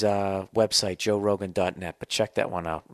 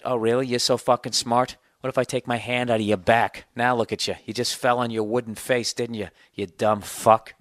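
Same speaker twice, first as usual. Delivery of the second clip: mock angry; 3 semitones higher, 3 dB louder than usual. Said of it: "arguing with my puppet".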